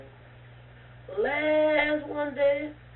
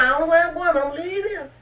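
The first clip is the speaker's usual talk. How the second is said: put-on tearful child; 6 semitones higher, 6 dB louder, faster than usual. Frightened child's tearful answer.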